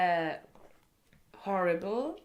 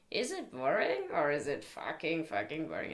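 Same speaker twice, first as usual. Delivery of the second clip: imitating teacher; 3 semitones lower than usual. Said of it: "the one everybody starts with".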